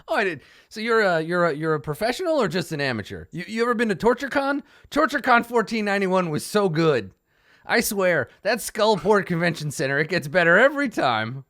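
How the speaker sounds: high, loud, excited fan chatter; gushing bugbear. Acted. Bugbear raving to fellow torturer about TortureCon, gushing. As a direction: gush loudly like a convention fan.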